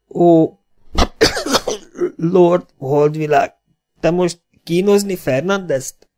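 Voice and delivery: magasabb, köhögő, töredezett beszédű sebesült férfi; nyögve, köhécselve, rossz magyarsággal kérdez; sebesült idegen, köhögve. A narrator's reading. Sebesült Fernandez törött magyarsággal. (sebesült Fernandez félve kérdezi Holdvilágot, köhögve, tört magyarsággal)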